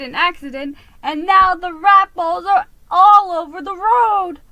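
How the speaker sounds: loud, high, frantic rat voice; distraught rat driver. Acted. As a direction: pour out the disaster in a panic.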